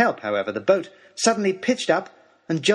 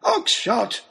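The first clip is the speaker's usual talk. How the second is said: roaring; 9 semitones higher than usual. Acted. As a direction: roar his name in fury. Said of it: "roared Lord Daunt".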